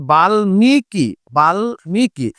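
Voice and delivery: বাল্মীকি with the ম said directly; বাল্মীকি: sound the ম clearly after ল; pronunciation demo. Shown as a demonstration. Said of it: "এই শব্দটার উচ্চারণ হবে". (বাল্মীকি স্পষ্ট ম দিয়ে)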